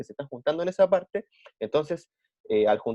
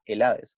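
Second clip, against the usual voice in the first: "Helades" stressed on the E; accent on the E; 5 semitones lower than usual. Shown as a demonstration. Teacher naming the Greeks for pupils, "Helades" stressed on E. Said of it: "con acento en la E".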